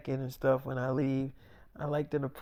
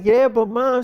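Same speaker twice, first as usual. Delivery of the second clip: put-on higher, louder kid protest; whiny kids; 8 semitones higher, 11 dB louder than usual. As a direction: whine the word Mom. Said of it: "they was like".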